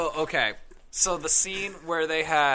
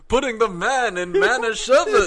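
put-on Ukrainian Jewish accent; 8 semitones higher, 12 dB louder than usual. Continued accent joke.

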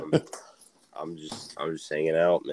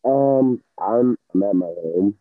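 muffled, bad-signal sound; hydrophone underwater voice; 6 dB louder than usual. Real, not acted. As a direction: talk like you're underwater. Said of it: "muffled as all hell".

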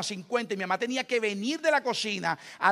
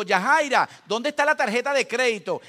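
loud call across the house; calling his wife from another room; 4 semitones higher, 8 dB louder than usual. Retold or imitated. Husband calls wife about the card, raised voice.

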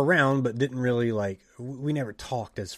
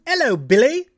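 chirpy trainer greeting; 13 semitones higher, 9 dB louder than usual. Retold or imitated. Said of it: "the trainer comes up to me and says".

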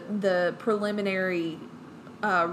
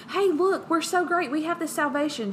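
hyped up; 7 semitones higher than usual. Retold or imitated.

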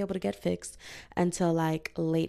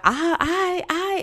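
mock stammer; 11 semitones higher, 7 dB louder, much slower than usual. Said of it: "I hear them like".

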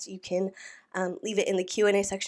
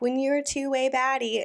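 higher, lightly mocking imitation; mocking caption voice; 6 semitones higher than usual. Host mimics a podcaster's photo caption, mildly mocking. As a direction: make fun of her boastful caption. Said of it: "me making fun of whatever her caption was".

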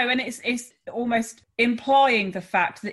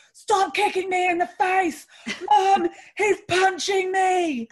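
put-on high, yelling child's complaint, slower at the end; kids shouting; 10 semitones higher, 3 dB louder, slower than usual. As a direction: squeal it like an outraged kid. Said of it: "shouting down or shouting".

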